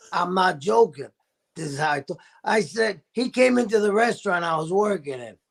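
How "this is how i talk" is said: lowered lost-voice imitation. Guest insists this was his voice, low and hoarse. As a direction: show how the lost voice talked, pitched down. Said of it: "I had lost my voice".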